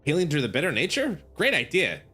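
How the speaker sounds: dripping fake praise; sarcastic. Shown as a demonstration. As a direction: sneer out "Great idea". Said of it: "Be sarcastic".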